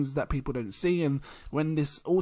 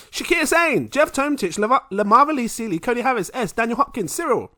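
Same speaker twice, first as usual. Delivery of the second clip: high, loud hype announcer reading names; shout-out roll call; 9 semitones higher, 8 dB louder than usual. Real, not acted. Host thanking patrons on a long list, hyped roll call. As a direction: belt out each name like a roll call.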